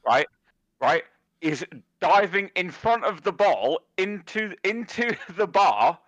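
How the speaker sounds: high-pitched disbelieving rant, slowing on the key words; retelling his outrage at the goalkeeper's blunder; retold exasperated rant. To his mate, retelling the game's absurd goal, high exasperated rant. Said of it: "And I'm just like".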